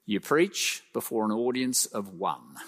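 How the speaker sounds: put-on Australian accent. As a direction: put on an Australian senior pastor. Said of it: "Sorry, that's my Australian accent".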